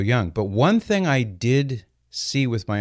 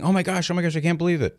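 imitating dad's high, stunned outcry at normal volume; mock shout in a raised pitch; retold shouting; 9 semitones higher, faster than usual. Son recalling dad jumping up at the TV, mock shouting.

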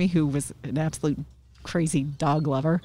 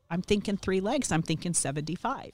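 lightly sarcastic haggling, rising at each end; retold wisecrack with a questioning lift; 3 semitones higher than usual. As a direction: toss it out as a sly counter-offer. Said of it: "I have a very sarcastic mouth".

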